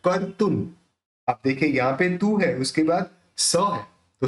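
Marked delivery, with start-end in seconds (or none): 0.1-0.7 कर्तुन with the r joined to क, said as kartun; repha joined to k. Shown as a demonstration. Teacher showing students where the repha goes. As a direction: say कर्तुन as kar-tun, the r rolling off क. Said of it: "क जो है उसके साथ खाली रेफ को जोड़े बोलना है".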